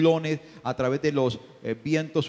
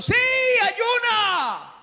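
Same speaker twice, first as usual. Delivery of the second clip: much higher, loud commanding shout; shouting spirit; 8 dB louder, much slower than usual. Acted. The spirit ordering the believer to fast, loud high shout. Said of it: "le va a pegar un grito".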